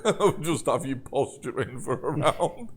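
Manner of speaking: talking through laughter; laughing. Real, not acted. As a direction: let the laugh break into the words. Game master laughs at player's posturing.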